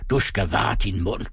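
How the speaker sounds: weighty warning. Acted. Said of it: "sagde han med vægt".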